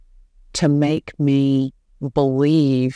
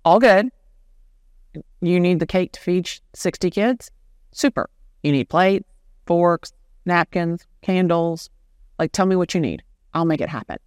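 eager can-do; 3 semitones higher than usual. Retold or imitated. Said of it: "And I'm like".

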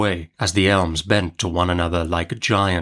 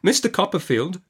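higher-pitched, wounded protest; indignant mother; 9 semitones higher than usual. A narrator's reading. Mother defends her dead husband to aunt, indignant. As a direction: stand up for your husband.

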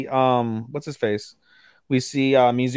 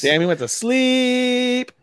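surprised; 10 semitones higher, slower than usual. Real, not acted. Reacting live to a knockout.

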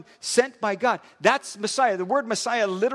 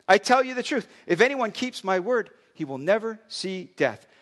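measured, earnest Bible reading; scripture reading. Acted. Pastor reading Jesus' words to religious leaders, earnest reading. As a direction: read the Gospel aloud to the congregation.

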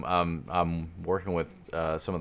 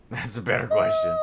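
laughing hard; 4 dB louder than usual. Real, not acted. Laughing hard at soprano joke.

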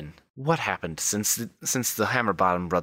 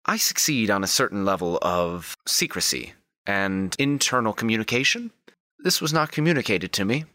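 formal reproach climbing in pitch; Wilhelmina. Acted. Madam to her crew about being kept uninformed, formal displeasure. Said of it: "Wilhelmina turns to Revan".

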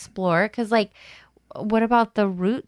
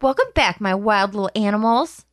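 punchier, livelier welcome; more chutzpah; 3 semitones lower than usual. Shown as a demonstration. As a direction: bring it with more energy. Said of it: "say it with more chutzpah".

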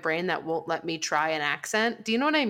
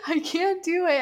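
laughing give-up; 8 semitones higher than usual. Real, not acted. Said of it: "giving up laughing".

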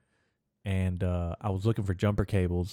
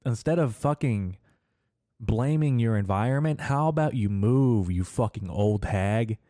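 retold angry; 4 semitones higher than usual. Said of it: "I was so fucking pissed".

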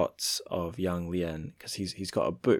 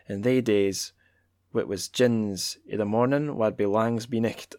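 measured, declaiming read of a Scots poem; poetry reading in Scots; 4 dB louder than usual. Acted. Reading Scots poetry to listeners, lightly declaimed. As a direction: read the Scots verse aloud with relish. Reads Scots translation aloud.

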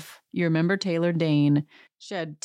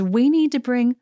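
imitating Kyle; 4 semitones higher than usual. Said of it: "And she says".

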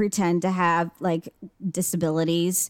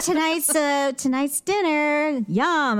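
mocking proud poster; 5 semitones higher, slower than usual. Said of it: "they're like".

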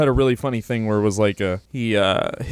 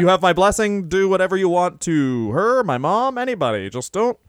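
hammed-up pleading, much higher on the climax; pleading to Brock; 4 semitones higher than usual. Pleading with Brock Lesnar not to hurt him, hammed-up and higher. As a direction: beg the monster not to hurt you, in mock panic. Begging Brock as comic victim.

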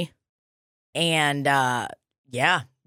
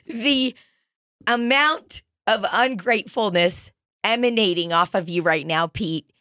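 slowing into exaggerated disapproval; appalled scolding. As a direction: scold a child as an appalled chaperone. Chaperone scolds ungrateful child.

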